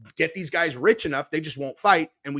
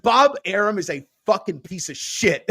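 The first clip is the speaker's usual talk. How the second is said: laughing quote; 4 semitones higher than usual. Retold or imitated. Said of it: "He's like".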